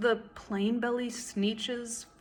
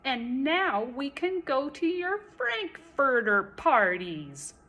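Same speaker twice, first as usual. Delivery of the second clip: yelling; 3 semitones higher, 4 dB louder than usual. Acted. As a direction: jeer at the snooty ones. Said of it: "they yelled".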